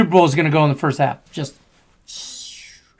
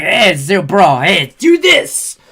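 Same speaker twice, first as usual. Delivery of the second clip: put-on Russian accent; slower than usual. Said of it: "It was my Russian accent".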